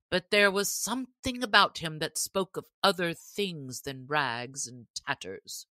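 the sheriff grandly crowning the winner; sheriff's voice. Acted. Sheriff addressing the stranger archer, lightly voiced and proud.

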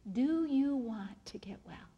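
slow, soft, near-whispered question; hushed question. Acted. Jesus asking the paralyzed man, hushed and slow. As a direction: ask it slowly, almost under the breath.

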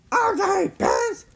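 high, loud battle yell. A narrator's reading. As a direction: yell a challenge at the enemy. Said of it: "Jimmy yelled".

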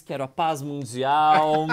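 loud, slow pageant declaration; beauty queen. Acted. Host mocking a pageant wish for the guest's message, loud and drawn-out. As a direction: proclaim it like a pageant contestant. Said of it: "Pode fazer a linha Miss".

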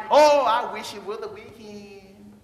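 slow, drawn-out moaning wish; imitating a tired worker longing for the weekend; mock weary sigh. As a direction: whine it like you're dragging through the week. Mimicking people wishing weeks away.

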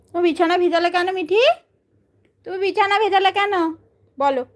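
high, laughing fake complaint about the wet bed; mock hurt pet talk. Real, not acted. Mock questioning the bird. (উঁচু গলায় হাসি মেশানো নকল অভিমান)

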